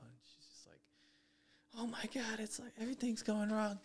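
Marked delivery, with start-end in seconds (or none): 1.8-3.8 high, half-whispered mock sob of distress; imitating crying fiancée. Fiancée upset about the wedding cookies, mock tearful. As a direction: play her teary panic over cookies, lightly mocking. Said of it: "started breaking down and crying".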